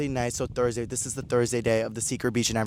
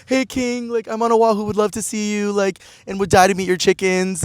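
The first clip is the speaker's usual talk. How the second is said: flirty text voice; 8 semitones higher, 4 dB louder than usual. Retold or imitated. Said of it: "And I was like".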